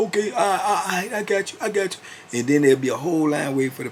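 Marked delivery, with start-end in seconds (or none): 0.1-2.4 buy time, stammering in a higher voice; Keith stalling. Retold or imitated. Keith brushing off the line for the paper, high and stalling.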